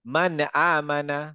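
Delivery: মান আমানা slowly, each ন clear; slow clear recitation. Shown as a demonstration. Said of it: "clear উচ্চারণ". (ধীরে স্পষ্ট উচ্চারণে মান আমানা)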